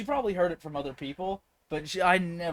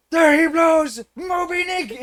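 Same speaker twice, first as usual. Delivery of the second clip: high, loud "thar she blows" style holler; mock whaling cry; 10 semitones higher, 10 dB louder, slower than usual. Campers heckling a friend at the pool, high mock shout. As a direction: call it out like a sighting at sea.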